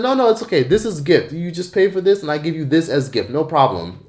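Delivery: lightly voiced salesman brushing off concern; smooth vendor. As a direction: soothe the buyer's doubts like a slick seller. Vendor insists it's a gift.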